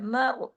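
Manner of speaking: मर with thin m and thick r; heavy r. Shown as a demonstration. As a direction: let the r of मर sound full. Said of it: "रा पे असर डाल रहा है". (मर में रा मोटा)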